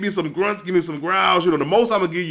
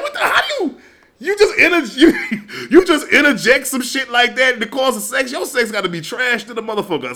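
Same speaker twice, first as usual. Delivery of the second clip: higher, cracking up mid-question; laughing disbelief; 6 semitones higher than usual. Retold or imitated. Friends overhearing the couple, laughing disbelief. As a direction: laugh through an incredulous question. Quoted group reaction laughing.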